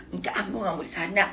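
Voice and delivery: spoiled whiny voice. Retold or imitated. Mother imitating her spoiled refusal to the boss. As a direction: sulk like a spoiled child, softly. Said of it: "kayak merajuk-merajuk".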